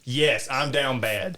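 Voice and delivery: slow, dreamy lovesick voice; lovesick swoon. Retold or imitated. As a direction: sigh it out, smitten. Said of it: "she's just like".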